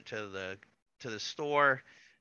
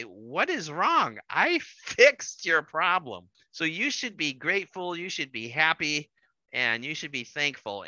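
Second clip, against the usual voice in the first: indignant husband; 4 semitones higher, 4 dB louder than usual. Retold or imitated. Husband defends himself in quarrel.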